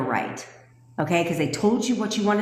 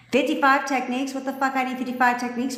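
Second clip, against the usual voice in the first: higher, disbelieving; incredulous outburst; 6 semitones higher than usual. Real, not acted. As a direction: scoff at the absurd number. Outraged at fifty-five techniques.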